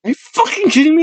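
very high, mock-outraged question; incredulous. Real, not acted. Host learns guest hasn't been posting, incredulous. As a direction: let the pitch shoot up in disbelief.

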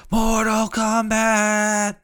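high, very slow movie-trailer announcer; echoey announcer. Acted. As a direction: draw the title out like an epic trailer. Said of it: "add some echoey effects".

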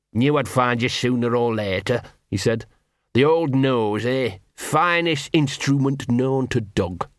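lightly voiced scruffy street dog, chummy; a small mongrel wheedling a friend; Gaspode the dog. Scruffy dog to hidden wolf, lightly voiced.

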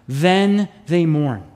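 "Then they mourn" drawn out slowly, each word weighed; slow emphasis. Shown as a demonstration. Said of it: "Do you see that?".

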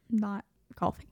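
talking through hiccups. Real, not acted. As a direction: voice jumping with a hiccup. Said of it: "I have the hiccups".

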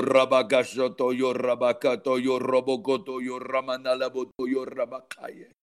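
rhythmic flowing glossolalia, fading at phrase ends; praying in tongues. Real, not acted. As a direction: let the syllables pour out in a chant.

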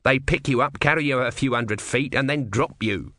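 testy little god; grumpy tortoise god. Acted. Tortoise explains.

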